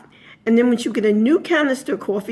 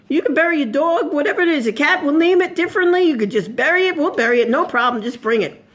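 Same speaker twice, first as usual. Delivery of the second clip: higher-pitched, breezy mock eagerness; eagerly obliging; 5 semitones higher than usual. Priest in a joke offered money, eagerly obliging. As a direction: suddenly wave every objection away.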